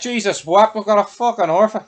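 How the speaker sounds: high, loud mock exasperation; a hammed-up gangster groaning at his bad luck; exasperated outburst. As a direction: throw up your hands in mock disbelief.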